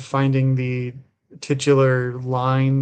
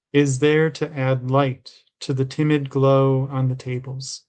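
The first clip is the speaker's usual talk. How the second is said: measured recital in short, separate phrases; understated poetry-reading cadence; poem reading. A narrator's reading. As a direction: read the poem evenly, line by line. Reads a poem aloud.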